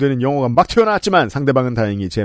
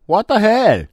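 sharp, higher angry outburst; angry shout; 8 semitones higher, much slower than usual. Retold or imitated. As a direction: snap it out in anger. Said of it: "소리치는 남편의 격앙된 목소리". (격앙된 외침)

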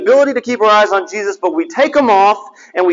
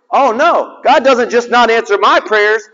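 bitter escalation; 6 semitones higher than usual. Retold or imitated. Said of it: "but it got worse".

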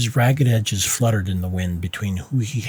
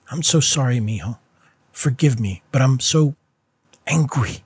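louder, higher pained apology; upset mother; 4 semitones higher, 4 dB louder than usual. Acted. Mother apologizing to son, voice rising with anger. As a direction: apologize while anger breaks through.

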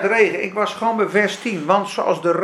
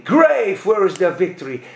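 punchy, louder repeat; louder declaimed King James line; louder English quote; 3 semitones lower, 5 dB louder than usual. Retold or imitated. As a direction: hammer the English line again. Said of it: "zegt hij".

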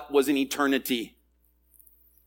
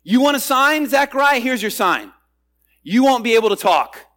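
stern mock rebuke; 5 semitones higher than usual. Gabriel's stern answer to Zechariah.

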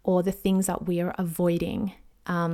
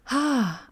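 higher-pitched sighed "ah"; 5 semitones higher than usual. Real, not acted. Podcaster winding up her rant on self-care, sighing. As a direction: let out an audible sigh. Sighs after finishing her thoughts.

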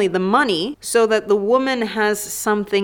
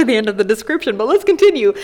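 sexy voice; 4 dB louder, faster than usual. Pretend. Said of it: "continue reading it to you in a sexy voice".

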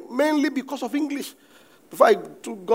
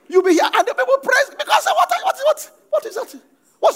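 mocking critic; 4 dB louder than usual. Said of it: "mocking a critic".

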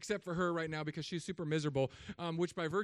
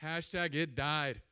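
deadpan punchline; 2 semitones lower, slower than usual. Shown as a demonstration. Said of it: "I'm gonna say".

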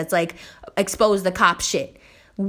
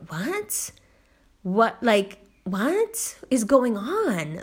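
incredulous, drawn-out question; retold disbelief; much slower than usual. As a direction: act baffled by the offer. Retelling disbelief at drink offer.

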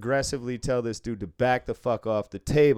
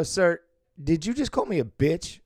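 indignant; 6 semitones higher than usual. Retold or imitated. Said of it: "And I go".

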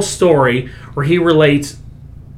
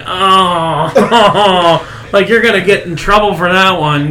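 laughing audience; 3 semitones higher, slower than usual. Retold or imitated. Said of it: "some people were like".

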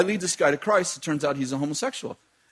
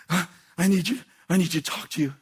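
dramatic Gary. Retold or imitated. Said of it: "he's really dramatic".

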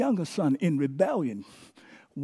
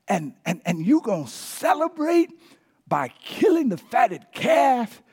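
self-righteous rant. Retold or imitated. Older brother complains to his father, building to indignant shout. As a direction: list every grievance, rising to a yell at the end. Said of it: "breaks into a self-righteous speech".

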